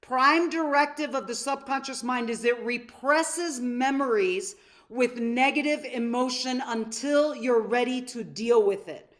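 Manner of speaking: slow, deliberate, every word laid out; said slowly. Shown as a demonstration. A seminar coach to students, spelling it out slowly. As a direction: take it slowly so the room keeps up. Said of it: "I'm gonna say this slowly".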